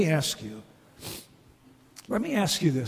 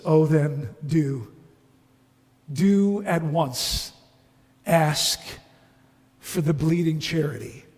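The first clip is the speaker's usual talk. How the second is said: gentle bright man. Acted. Bright man urging the ghost to ask for charity, gentle.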